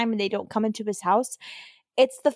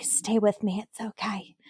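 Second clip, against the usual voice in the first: soft, dropping into a whisper; hushed, tender retelling; soothing imitation; 4 semitones lower, 6 dB quieter, slower than usual. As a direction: gently imitate reassuring someone hurt. Buffy soothing man gasping on floor.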